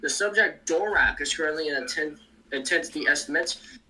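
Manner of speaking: choppy, breaking-up call audio; glitching out. Real, not acted. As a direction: voice cutting in and out over the stream. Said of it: "You're glitching out a little bit".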